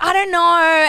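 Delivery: high, loud, hammed-up discomfort; retold flustered reply. Babysitter awkwardly answering the boy in the bath, flustered. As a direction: squirm out of it, pitched right up.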